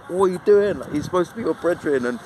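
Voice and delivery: mock yell urging the friend to hit back; retold angry yell. Retelling how he yelled at the stunned friend, mock angry shout. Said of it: "and I was like".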